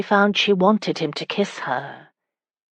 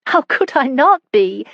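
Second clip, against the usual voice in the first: higher, louder voice for the wife; amused retort; 8 semitones higher, 5 dB louder than usual. Acted. Wife answers her husband while giggling, amused retort. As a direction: answer back high and lively.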